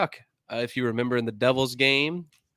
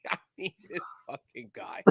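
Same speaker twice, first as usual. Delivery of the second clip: breathless whisper through laughter; whispered aside; 6 semitones higher, 15 dB quieter than usual. Real, not acted. Host recovering from laughter about his co-host, whispered. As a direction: gasp it out under your breath.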